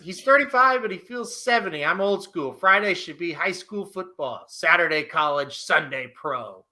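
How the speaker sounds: put-on old man voice. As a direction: read it like a grumpy old-timer. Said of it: "I try to say that in an old, old man voice".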